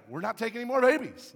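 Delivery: high, loud firm refusal; defiant retort. Retold or imitated. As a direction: imitate a wife standing her ground loudly. Wife's defiant answer in retold quarrel.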